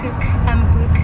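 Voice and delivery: cook and book with short Scouse u; Scouse vowels. Shown as a demonstration. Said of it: "like, say, like".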